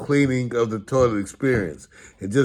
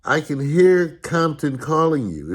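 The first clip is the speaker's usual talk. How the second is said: mock sarcastic dad; slower than usual. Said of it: "My dad would go".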